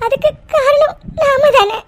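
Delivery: tearful. Acted. Wife blaming herself, crying.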